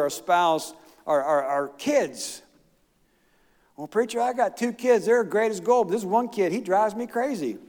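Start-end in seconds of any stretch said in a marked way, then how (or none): 3.8-7.6 higher-pitched mock parishioner's complaint; complaining parishioner. Congregant confiding in the preacher about a kid, mock complaint. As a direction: imitate an exasperated parent griping.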